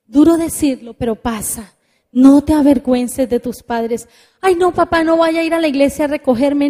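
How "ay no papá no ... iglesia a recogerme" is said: mock ashamed teenager talking to father; embarrassed whiny teen. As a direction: beg dad not to show up.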